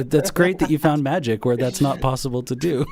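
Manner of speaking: laughing sarcastic remark. Real, not acted. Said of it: "I'm being sarcastic".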